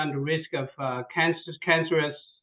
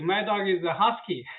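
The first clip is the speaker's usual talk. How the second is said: laughing. Real, not acted. Amused, telling the caller her own dog is a husky. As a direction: chuckle through the line. Chatting about dogs, laughing.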